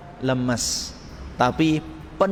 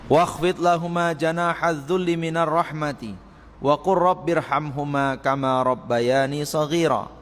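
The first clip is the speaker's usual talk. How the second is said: Quran recitation. Acted. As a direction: chant it like a reciter at the pulpit. Quran verse recited in sermon. (lantunan tilawah Al-Qur'an yang pelan)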